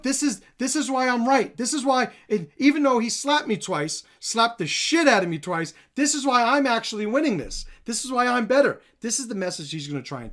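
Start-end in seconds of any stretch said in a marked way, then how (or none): 0.0-8.8 mock insistent pleading, pitched up; Galvao's mock self-justifying. Commentator voicing Galvao recruiting people in the room, mock insistent. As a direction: imitate someone making his case, point by point. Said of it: "he is now gonna start recruiting people".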